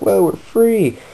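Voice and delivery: high-pitched mock celebration; acted jubilation. Prisoners celebrate getting out of the land, acted jubilation. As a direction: cry it out like a freed captive.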